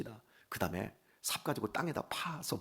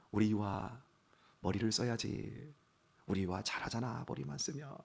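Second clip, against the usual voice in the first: imitating coaxing wife; 6 dB quieter than usual. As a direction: gently encourage a child, imitating the wife. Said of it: "우리 아내 그럽니다". (아내를 흉내 내며 부드럽게 달래는 말투)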